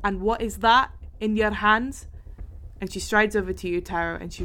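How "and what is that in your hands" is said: stern guard. Acted. DM voices guard questioning.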